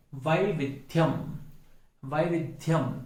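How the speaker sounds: वैविध्यम with a clear व, slow; clear v sound. Shown as a demonstration. Teacher models वैविध्यम slowly for students. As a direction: say वैविध्यम with the व, not ब. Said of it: "यह स्पष्ट रूप से सुनाई देना चाहिए".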